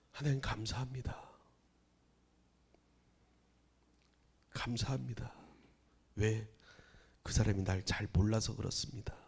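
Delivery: hushed whisper of thanks; quiet prayer. Retold or imitated. Pastor praying under his breath after a slight. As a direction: murmur it softly to God.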